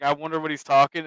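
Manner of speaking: ordinary delivery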